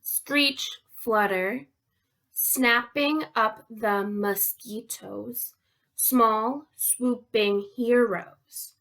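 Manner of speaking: slow, measured poem reading with pauses; deliberate, spaced-out syllables; haiku reading. Shown as a demonstration. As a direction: read it out slowly so the beats can be counted. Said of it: "I'm gonna read you three haikus".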